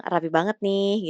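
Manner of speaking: slow, drawn-out idle comment; casual teasing. Shown as a demonstration. Someone idly remarking on neat clothes, teasingly. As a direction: toss it out playfully, just for fun. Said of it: "itu kayak iseng".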